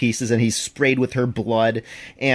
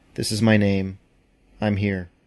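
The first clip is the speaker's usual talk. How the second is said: hollowed-out, low, downcast acted-out voice; 4 semitones lower than usual. Recounting a scene where a transfer student arrives in class, imitating a hollowed-out voice. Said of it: "in this sort of hollowed out voice".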